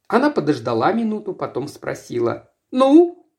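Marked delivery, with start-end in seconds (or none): 2.7-3.3 sharp, higher, louder "ну"; impatient demand. A narrator's reading. Mistress presses her chauffeur, impatient louder demand. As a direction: snap at him to answer. Miss Jellet demands answer.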